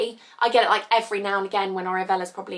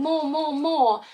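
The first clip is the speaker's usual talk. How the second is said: put-on toddler demand; 6 semitones higher, much slower than usual. Toddler pestering mum for more milk, mock high toddler voice. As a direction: ham up a toddler whining for more.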